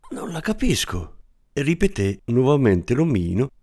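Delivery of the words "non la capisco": same high voice, firmer, stress on "capisco"; more resolute. Acted. Little man repeating his denial, now firmer. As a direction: plant your feet on "capisco". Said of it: "ma stavolta in maniera un po' più risoluta".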